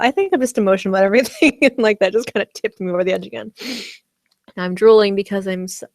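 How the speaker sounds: talking around a candy; mouth full. Real, not acted. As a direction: speak with a sweet in your mouth. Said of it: "I have a candy in my mouth".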